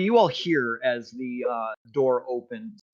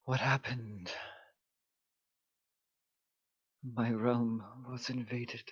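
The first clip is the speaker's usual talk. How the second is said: weary ancient goddess; 10 dB quieter than usual. Acted. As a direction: speak with faded ancient sorrow. Goddess voice continues.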